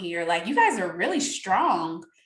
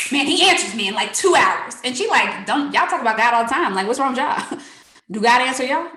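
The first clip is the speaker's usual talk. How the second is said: loud retold quote; 5 dB louder than usual. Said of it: "She's like".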